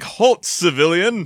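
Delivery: slow, booming hero voice; grandiose superhero. Retold or imitated. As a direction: proclaim it like a superhero. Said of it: "like a grandiose superhero".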